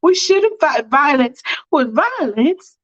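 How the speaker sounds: acted exasperated, drawn-out defence; emphatic protest. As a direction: stretch each point out indignantly. Acted quarrel, defending herself.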